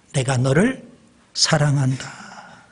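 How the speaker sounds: preacher voicing Jesus slowly and tenderly. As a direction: draw each word out gently. Jesus' words repeated twice.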